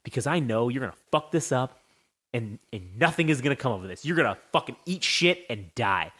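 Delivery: low, measured mock gloating; Triple H. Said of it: "He's like".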